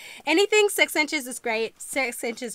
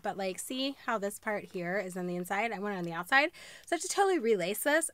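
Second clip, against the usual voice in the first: ordinary talk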